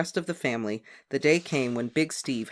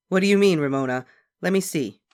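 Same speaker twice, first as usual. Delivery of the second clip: alarmed mother; 5 semitones higher, 7 dB louder than usual. A narrator's reading.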